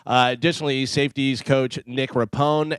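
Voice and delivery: steady radio news read; sports desk reading the day's coaching changes. Acted. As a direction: deliver the headlines like a newscaster. Reads the sports news segment.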